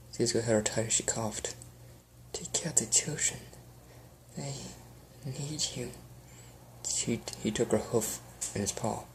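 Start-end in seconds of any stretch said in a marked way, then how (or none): 2.3-5.9 soft breathy fading words; weak dying whisper. Acted. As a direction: whisper it with last strength. Dying wife coughing.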